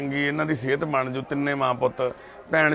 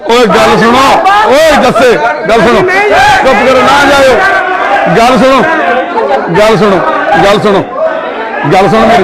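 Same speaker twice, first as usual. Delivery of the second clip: higher and louder, begging them to listen; urgent shouting; 7 semitones higher, 14 dB louder than usual. Real, not acted. Worker shouts after the resisting young men to listen. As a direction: shout again and again to stop them.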